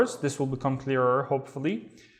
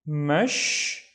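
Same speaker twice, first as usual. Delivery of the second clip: "Mashghula" with long pauses between mash, ghu and la; slow teaching breakdown of "Mashghula"; syllable by syllable; slower than usual. Shown as a demonstration. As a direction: split "Mashghula" into separate drawn-out syllables. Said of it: "splitting this into syllables".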